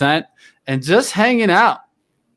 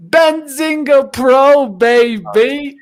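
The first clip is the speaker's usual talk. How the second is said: hype announcer; 9 semitones higher, 5 dB louder, much slower than usual. Acted. Hyping his stock tool.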